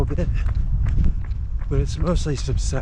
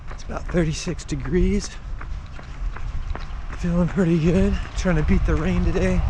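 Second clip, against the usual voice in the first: talking while running, a bit breathless; while jogging. Real, not acted. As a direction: speak as you jog outdoors. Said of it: "I'd be running anyway".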